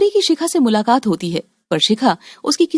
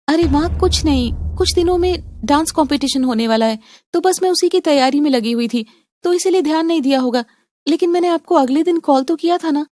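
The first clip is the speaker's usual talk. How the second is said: higher, earnest daughter voice; pleading young daughter; 5 semitones higher than usual. Acted. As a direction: plead with her mother, pitch raised. Daughter explains missed call.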